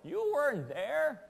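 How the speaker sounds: mock-stern, emphatic storyteller; indignant insistence. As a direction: put your foot down, stretching the last words. Shepherd scolds his interrupting sheep.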